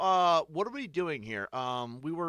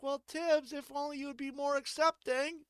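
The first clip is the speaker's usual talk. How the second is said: a hint of a high preachy townsperson; mock chiding, lightly voiced; lightly voiced scolding local; 12 semitones higher than usual. Townsfolk lecturing Tibbs to be accepting, lightly voiced preachy. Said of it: "They're like".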